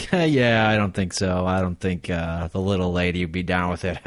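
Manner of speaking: light laugh at start and end; imagined chuckling refusal. Acted. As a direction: laugh it off politely. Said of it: "I'd probably laugh".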